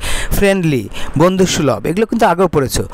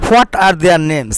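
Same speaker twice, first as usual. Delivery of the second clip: very slow, careful English reading; slow model reading; much slower than usual. Shown as a demonstration. Teacher reading the sentence slowly to students. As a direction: read it word by word for the class. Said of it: "slow model reading of English".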